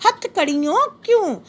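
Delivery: slow, measured reading of verse; poem recitation. Shown as a demonstration. Teacher reciting the poem to the class, slow and measured. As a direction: savour each word like a recital. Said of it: "कवि कह रहा है इस paragraph में".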